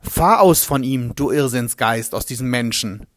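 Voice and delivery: calm, commanding exorcist; sure and firm. Acted. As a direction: Jeschua driving out the spirit, sure and firm. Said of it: "sicher und bestimmt".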